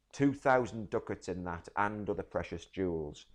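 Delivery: loud, raw, grieving rage as Shylock; anguished outburst. Shown as a demonstration. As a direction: rail at the loss, almost shouting. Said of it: "So let's read it again".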